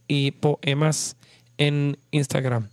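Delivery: slow, spelled-out pace. Shown as a demonstration. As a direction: say it slowly for listeners. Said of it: "voy a decirlo más lento".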